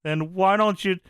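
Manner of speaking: Funk taunt. Retold or imitated. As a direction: lean into the hell yes setup. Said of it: "Funk says".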